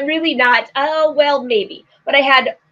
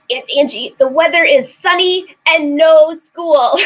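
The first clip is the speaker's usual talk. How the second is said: put-on slow, louder, higher child voice through a laugh; imitating little nephew; 4 semitones higher, 3 dB louder than usual. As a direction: play the three-year-old, laughing. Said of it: "the cutest little raspy voice".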